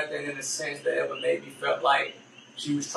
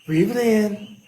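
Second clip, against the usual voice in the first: calming breath cue; 4 semitones higher, 3 dB louder, slower than usual. Shown as a demonstration. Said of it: "Everybody breathe".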